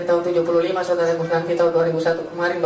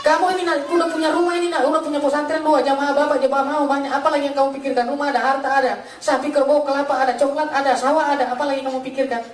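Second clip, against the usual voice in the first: put-on higher-pitched mother questioning her child; lightly voiced mother; 4 semitones higher than usual. Mother urging her converted child to reconsider, lightly voiced remonstrance. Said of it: "Terus mama saya bilang".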